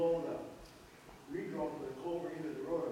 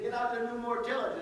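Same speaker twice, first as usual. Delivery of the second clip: raised voice, laughing through it; loud laughing order; 8 semitones higher, 7 dB louder than usual. Retold or imitated. Retold adviser's blunt instruction.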